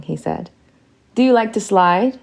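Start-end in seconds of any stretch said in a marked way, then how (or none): 1.1-2.2 eager, louder and higher question. A narrator's reading. Prince to the disguised lady, eager and keen. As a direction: lean in with keen interest. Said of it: "His voice was eager".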